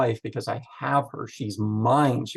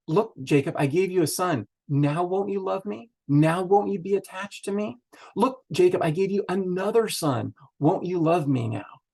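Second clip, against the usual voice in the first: higher, longing plea for love; pleading; 6 semitones higher than usual. Retold or imitated. Leah begging Jacob to love her, higher and pleading. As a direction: beg him to finally love you.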